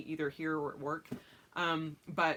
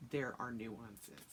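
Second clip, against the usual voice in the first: slow, lower mocking echo of his words; 7 semitones lower, 9 dB quieter, much slower than usual. Wife mocking husband's excuse, slow lower echo. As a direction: throw his line back at him, slowly. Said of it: "And I'm like".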